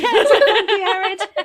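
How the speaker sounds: put-on high, tiny child's voice, laughing; little voice. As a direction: squeak it like a small child. Echoing the little voice.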